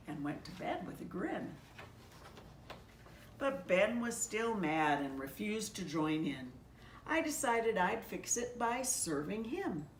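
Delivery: gentle rhyming storybook reading; story narration. A narrator's reading. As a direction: read it like a picture book to children. Pastor reads rhyming Christmas story.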